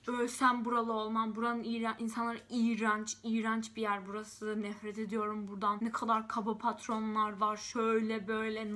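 upset, heated venting about the town; angry rant. Retold or imitated. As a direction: vent your fury at the rude bosses. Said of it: "Nasıl saydırıyorum".

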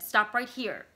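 wife pleading with husband to leave town, anxious and loud; frightened plea. Acted. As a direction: push him to turn back, scared. Vicky panicking, begging to leave.

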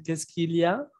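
each syllable spelled out with the L heard; careful, clear. Shown as a demonstration. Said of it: "Pueden decir".

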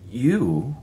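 a startled, high gulped word. A narrator's reading. Miller learns the stranger caused it, gulps in shock. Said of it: "David Miller gulped the word".

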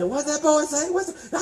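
puzzled listener voice. Retold or imitated. Preacher voicing folks who couldn't understand him, mildly puzzled. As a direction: ask like you truly can't follow. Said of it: "You say".

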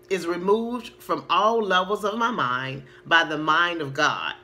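measured, slow recitation; slow affirmation reading. Shown as a demonstration. Coach reading an affirmation aloud so viewers can copy it, slowly. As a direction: stretch the words as you read them out. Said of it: "try to say it as slow as possible".

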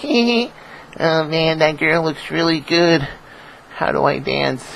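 high, soft, slow timid nerd voice; nerd in the corner. Retold or imitated. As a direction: whimper it like a shy nerd. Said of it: "I ain't like the nerds in the corner like".

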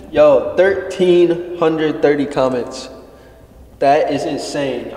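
slow, loud amazement; excited. Real, not acted. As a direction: stretch it out, blown away. Amazed at comment count.

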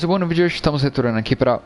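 talking through hiccups; words broken by a hiccup. Real, not acted. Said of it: "tô com soluço". (com soluço)

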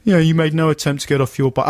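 smug cop voice. Retold or imitated. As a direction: parrot the same charge like a jobsworth. Police officer voiced in story.

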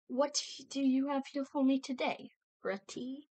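playful attempt at a British accent; fake British accent. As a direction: pretend British visitor, swooping in pitch. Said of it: "I'm trying to be British".

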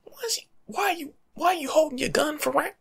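ordinary talk

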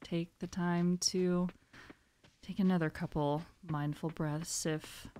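soft, calm invitation to breathe; mindful breathing guide. Real, not acted. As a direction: gently guide listeners into a breathing pause. Leads mindful breathing pause.

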